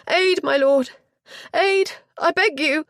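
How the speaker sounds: high, loud begging cry; a shaken lady begging the lord for help, high and loud; desperate plea. Acted. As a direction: throw yourself on his mercy. Staggering, begging for aid.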